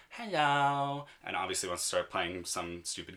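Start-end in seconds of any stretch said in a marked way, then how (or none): 0.1-1.0 put-on toddler hello. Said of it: "stood up on the middle seat and goes".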